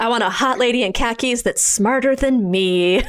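laughing through a mock Michael Crichton line; half-laughing, teasing the author's fantasy. Friend mocks Michael Crichton's taste in women, laughing. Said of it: "We know what your type is".

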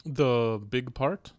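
slow, put-on Russian accent; drawn-out mock Russian reply. Shown as a demonstration. Guest says where in Russia, slow Russian accent. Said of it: "Russian accent".

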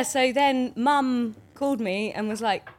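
ordinary talk

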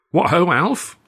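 high, loud, breezy greeting; early morning jauntiness. Acted. Arthur greeting Alf in the corridor, jaunty and bright. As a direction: chirp it out cheerfully. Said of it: "with early morning jauntiness".

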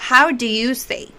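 slowed-down teaching example; slow model phrase. Shown as a demonstration. Teacher models a question for learners, slowly.

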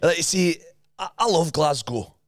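animated Scottish lilt; Scottish accent. Shown as a demonstration. Host gives next line to copy, Scottish accent. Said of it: "They do Scot-, Scottish accent".

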